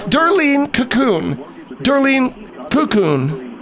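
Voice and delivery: "Cocoon" slowly, as KOO-koon; slow, careful "Cocoon", weight up front; first-syllable stress on Cocoon. Acted. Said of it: "the second syllable emphasis doesn't work".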